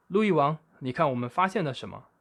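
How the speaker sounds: high, loud eager call to the king; excited call. A narrator's reading. Monkeys presenting the boy to King Louie, excited call. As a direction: show off the catch eagerly.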